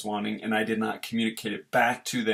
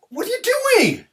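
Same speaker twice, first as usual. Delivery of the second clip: sudden high angry shout; loud exasperated parent yell; frustrated yell; 7 dB louder, faster than usual. Retold or imitated. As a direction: snap at the kid in frustration. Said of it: "when I get frustrated".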